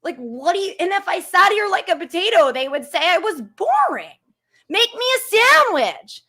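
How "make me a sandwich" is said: mock troll voice. Quoting sexist trolls.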